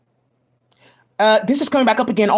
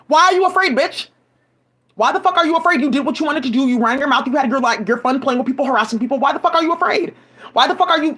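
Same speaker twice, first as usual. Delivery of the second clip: raised, heated questions hurled at them; angry rant; 3 semitones higher than usual. Real, not acted. Ranting at the people who targeted her, angry and raised. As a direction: demand it, pitch up and pushing.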